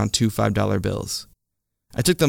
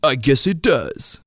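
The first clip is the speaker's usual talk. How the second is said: laughing; 5 semitones higher, slower than usual. A narrator's reading.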